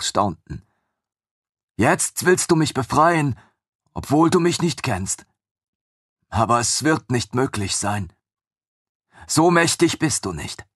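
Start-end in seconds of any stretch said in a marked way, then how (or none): 1.8-10.7 doubtful captive spirit, sung out high; chained ancient creature. Acted. Captive creature telling the narrator he can't free her, high and doubting.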